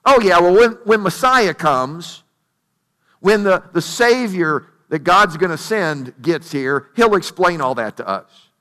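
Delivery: brushing off the point, dragging out the words; acted-out dismissive shrug of a reply. Woman at the well putting off Jesus, dismissively. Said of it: "she says it kinda dismissively".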